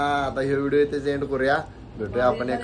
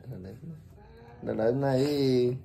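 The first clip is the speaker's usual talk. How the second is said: slow soothing; 4 dB quieter, much slower than usual. Real, not acted. Son soothing crying mother.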